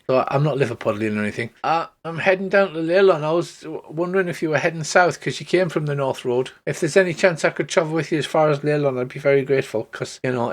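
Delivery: put-on a shy young halfling asking to tag along; shy halfling girl. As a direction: speak shyly with a nervous rush. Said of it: "comes over shyly and she says".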